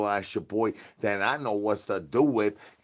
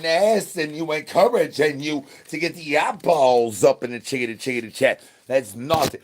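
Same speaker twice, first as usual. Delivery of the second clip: raised voice, higher, scolding the chat; loud mock rant; 4 semitones higher, 5 dB louder than usual. Comedian scolding his chat, loud and mock-indignant. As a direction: bark it back at the chat.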